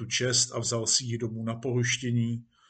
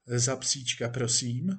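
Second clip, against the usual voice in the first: restrained, questioning reply with a final rise; puzzled echo. Acted. Actor queries chief about the dog, puzzled. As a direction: echo it back as a wary, polite question.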